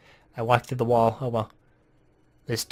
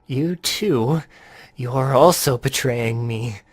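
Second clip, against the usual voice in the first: crazy voice; much slower than usual. Acted. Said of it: "I'm gonna give him a more, uh, crazy voice".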